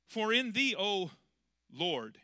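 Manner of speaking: mock-screaming the verse as if in capitals; screamed verse. Shown as a demonstration. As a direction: shout the words, hamming up the capitals. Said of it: "he's screaming it".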